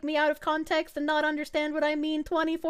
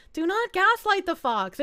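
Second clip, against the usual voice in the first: normal talking voice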